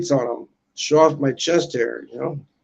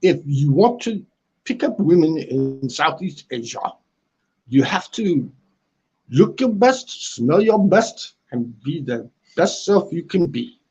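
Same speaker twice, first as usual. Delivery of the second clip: attempted British accent, measured delivery. Shown as a demonstration. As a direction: dispense advice in a put-on UK accent. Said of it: "I'm working on it".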